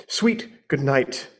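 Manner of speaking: quiet, slow and tender; soft tender goodbye. Acted. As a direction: hush it lovingly.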